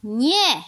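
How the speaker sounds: NIE drawn out, high and loud, then falling; even clearer. A narrator's reading. Crow correcting the cow, emphatically clear. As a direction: land a firm, distinct NIE. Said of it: "mówił jeszcze wyraźniej".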